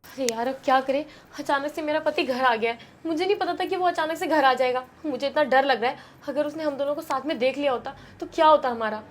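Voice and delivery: quiet, worried murmur; scared hush. Acted. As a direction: fret softly so no one hears. Wife afraid of being caught. (पकड़े जाने के डर से धीमी घबराई आवाज़)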